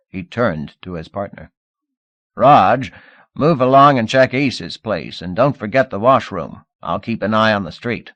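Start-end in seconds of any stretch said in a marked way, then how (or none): 2.3-8.1 barked order. Acted. Sergeant orders his partner.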